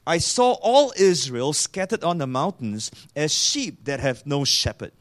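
mildly bold quoted prophecy, firmly stressed; retold bold pronouncement; bold proclamation. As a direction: declare the prophet's words with measured boldness. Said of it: "Micaiah boldly says".

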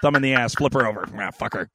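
low, gruff whispery urging; inner devil voice. Retold or imitated. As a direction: growl like the devil on your shoulder. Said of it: "that voice in the back of your head".

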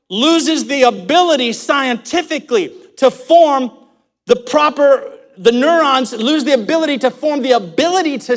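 animated, emphatic sermon delivery; preaching. Real, not acted. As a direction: preach it with fervour, punching key words. Preaches at raised pitch and force.

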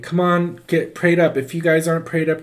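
mock churchgoer's urging. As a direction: urge them along briskly. Acted urging from church people.

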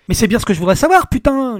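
husband yelling at his wife for answers; furious yell. A narrator's reading. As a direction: explode at her. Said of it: "hurla-t-il".

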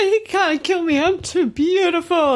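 high, shrill-free mock panic of a vain girl; vain panicking girl. Bulma panicking at gunpoint, high mock vanity. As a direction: squeal it like she's too pretty to die.

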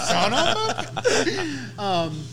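high, loud burst of laughter; cracking up mid-sentence; laughing. Real, not acted.

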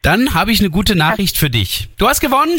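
rising to a big excited reveal; booming prize announcer. Acted. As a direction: announce the win like a game show host. Telling caller she won prize.

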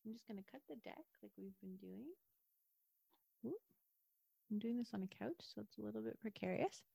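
muffled, far-off mic; underwater. Real, not acted. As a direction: voice from under water. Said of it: "It sounds like you're underwater".

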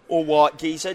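Cockney London greeting; London accent. Shown as a demonstration. Pub owner teaching the London accent, London accent. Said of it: "teach you the London accent".

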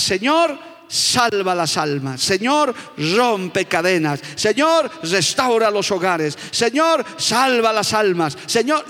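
pleading on your knees, in tears; slow fervent prayer demo; earnest intercession prayer. Shown as a demonstration. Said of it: "para decir de rodillitas y con lágrimas".

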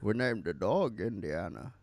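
lightly voiced film-father quote; hint of a movie character impression; Henry Jones Senior. Co-host quoting Indiana's father from the film, lightly voiced character. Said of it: "Indiana Jones is Henry Jones Senior".

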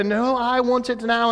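high, insistent British brat; British accent. Acted. Veruca refusing her father's promise, high demanding British accent. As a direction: refuse to wait, in a mock British girl's voice. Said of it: "I think it was a British accent".

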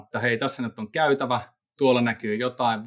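ordinary delivery

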